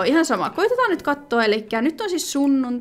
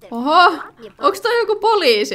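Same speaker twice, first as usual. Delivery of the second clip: loud, high startled exclamation; startled oho; 7 semitones higher, 6 dB louder than usual. Real, not acted. Spotting a stranger in the game, loud surprised oho.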